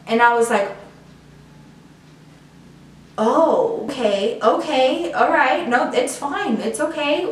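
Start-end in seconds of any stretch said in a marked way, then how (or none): 3.2-7.3 high, halting attempt to stay calm; retold flustered acceptance; acted stunned reassurance. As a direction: take in shocking news, hastily reassure. Reacting to friend's pregnancy news.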